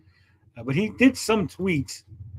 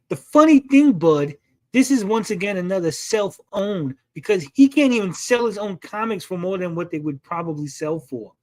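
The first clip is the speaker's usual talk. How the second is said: Sturgis impression; 3 dB louder than usual. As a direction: read it as a mocking impersonation. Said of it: "read it in my best Sturgis impression".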